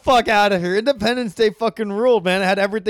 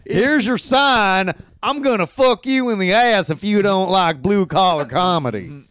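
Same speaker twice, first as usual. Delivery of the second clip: mock Southern accent. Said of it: "kind of a southern accent".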